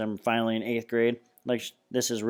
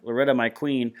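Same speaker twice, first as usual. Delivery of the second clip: mock knight; 2 semitones higher than usual. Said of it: "Freak is strutting around".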